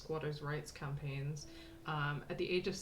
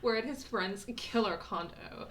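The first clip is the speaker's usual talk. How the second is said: chirpy, higher and slower, reading aloud; bubbly postcard voice; 5 semitones higher, 6 dB louder, slower than usual. Acted. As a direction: read it like an excited girl writing home. Reads postcard in girl's voice.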